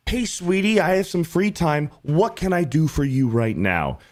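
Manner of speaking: high, sweet pandering to a sweetheart; eager-to-please man. Acted. Man offering his free time to his sweetie, eager to please. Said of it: "if a man is like".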